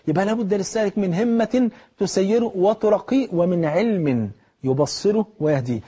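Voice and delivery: slow, weighty recitation; slow emphatic refrain. Acted. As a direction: say the whole maxim slowly, leaning on همة. Full maxim recited slowly.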